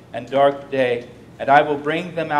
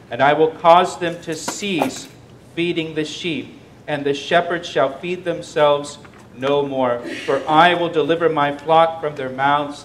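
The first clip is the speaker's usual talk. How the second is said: preacher proclaiming the Lord's words, louder; forceful scripture reading; 3 dB louder than usual. Acted. Preacher reading the Lord's warning to the shepherds, forceful. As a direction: declaim it like a prophet's oracle.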